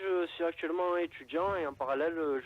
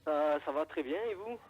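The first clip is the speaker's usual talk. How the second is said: radio show caller. Real, not acted. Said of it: "ça grésille dans l'oreille".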